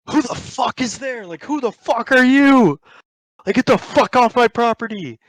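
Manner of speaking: high-pitched acted angry yell; angry homeowner. Homeowner confronts masked intruders on his property, acted angry yell. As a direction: yell it like a retold challenge to intruders.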